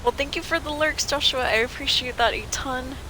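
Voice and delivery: put-on Nordic accent, slightly Russian. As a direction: try a playful Nordic accent. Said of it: "Trying to do a little Nordic accent".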